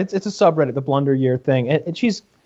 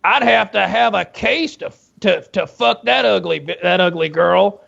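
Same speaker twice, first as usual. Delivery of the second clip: radio host; 3 semitones higher than usual. Retold or imitated. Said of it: "he's like".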